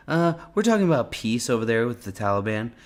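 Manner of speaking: lightly imitated presidential cadence; Trump accent. Explaining peace talks to reporters, in a light Trump accent. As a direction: put a touch of the president's accent on it. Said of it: "in a Trump accent?".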